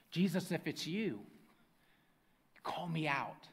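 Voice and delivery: hushed, tentative call into the quiet; lone voice calling. Acted. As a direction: drop to a near-whisper, pausing before the request. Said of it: "there's a lone voice that calls out".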